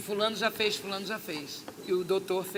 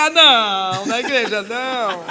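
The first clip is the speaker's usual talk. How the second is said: loud, drawn-out refusal; comic dismay; 13 dB louder, slower than usual. Retold or imitated. Told it happened in church, comic dismay. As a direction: wail it slowly as a mock protest.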